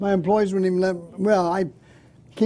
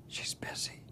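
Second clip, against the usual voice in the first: tiny whisper into the phone; hushed child whisper; 18 dB quieter, slower than usual. Acted. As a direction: whisper like a kid hiding.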